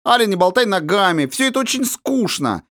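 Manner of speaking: high, whiny mocking of her governess; bored complaint. A narrator's reading. Princess grumbling at her governess, high and sulky. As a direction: pout and complain it's all boring. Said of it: "надула хорошенькие губки".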